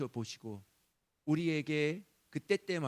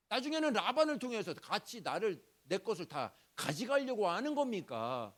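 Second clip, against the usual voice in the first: 조금 높은 목소리로 떼쓰듯; 하나님께 졸라대듯 따지며; 7 semitones higher than usual. Retold or imitated. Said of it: "하나님 앞에 협박 아닌 협박처럼". (야곱이 하나님께 떼쓰며 따지는 말투)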